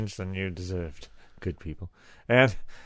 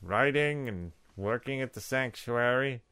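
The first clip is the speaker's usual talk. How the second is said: imitating Joe; 5 semitones higher, slower than usual. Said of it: "So he's looking at his watch".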